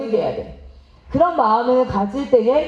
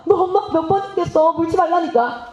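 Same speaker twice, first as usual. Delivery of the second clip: a fast mock scold, pitched up; exasperated scolding mother; 5 semitones higher than usual. Mother snapping at the son who keeps biting, fed up. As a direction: rattle it off like a fed-up mom.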